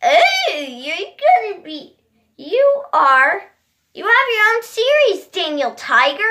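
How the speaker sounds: lightly mimicked taunting commenter; mocking commenters. Boy quoting his commenters, mocking. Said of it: "you were saying".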